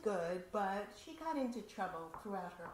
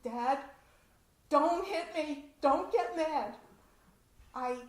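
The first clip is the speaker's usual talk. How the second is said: pleading daughter; 5 semitones higher, 9 dB louder than usual. Retold or imitated. Frightened daughter confesses to her father, higher louder plea. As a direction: beg dad not to hit you.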